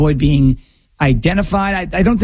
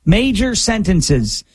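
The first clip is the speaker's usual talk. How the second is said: slow emphatic delivery; 3 semitones higher, slower than usual. Real, not acted.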